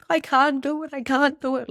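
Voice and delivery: high, loud pretend panic; mock anxious panic. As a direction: act out an overwhelmed wail.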